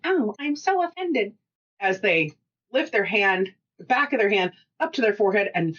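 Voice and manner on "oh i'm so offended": high, hammed-up swooning offence; mock offended. Mocking oversensitive people, hammed-up high swoon. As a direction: play the fainting drama queen. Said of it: "fake a fate".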